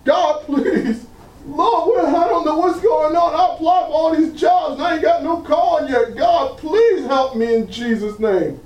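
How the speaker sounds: a hint of a man at wit's end; imitated frantic prayer. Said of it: "Next day".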